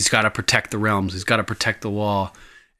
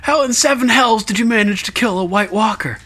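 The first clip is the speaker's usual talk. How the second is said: incredulous Pip; 12 semitones higher than usual. Retold or imitated. Host voicing Pip challenging Sam, mild disbelief. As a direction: sound amazed and doubtful. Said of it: "And he's like".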